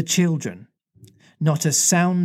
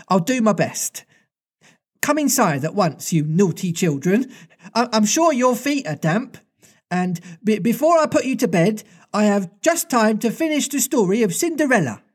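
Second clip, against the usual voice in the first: motherly Wendy; 6 semitones higher than usual. Acted.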